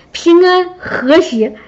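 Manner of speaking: slow words through a laugh. Real, not acted. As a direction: savor it with a chuckle. Repeats her answer, laughing.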